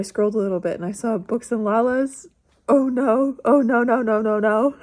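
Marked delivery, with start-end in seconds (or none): 2.7-4.7 loud, rising "oh no" panic; loud dismay. Real, not acted. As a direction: groan out no after no. Dismay at a bad review.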